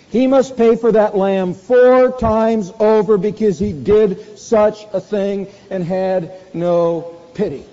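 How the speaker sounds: slow, loud and very high, hammering each word; indignant verdict. Acted. David passing judgment on the rich man, slow and booming. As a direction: pronounce the sentence like an outraged king.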